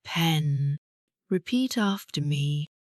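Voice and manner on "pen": pen with a short E sound. Shown as a demonstration. Teacher models short vowel for learners, clear short pen. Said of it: "Say this word".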